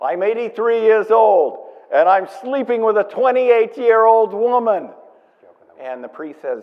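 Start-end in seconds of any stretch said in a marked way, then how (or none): 0.0-4.9 put-on Yiddish-inflected accent, higher pitch and louder. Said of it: "you do the Jewish accent better than I do".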